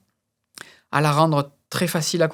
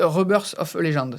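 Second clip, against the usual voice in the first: put-on English accent. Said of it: "mon accent anglais".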